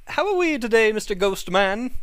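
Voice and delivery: lifted, formal cat greeting the ghost; posh cat voice. Acted. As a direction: address the ghost like a dignified cat.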